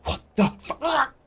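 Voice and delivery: high, slow, loud curse; furious outburst. Acted. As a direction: spit it out in outrage. Held thug furious.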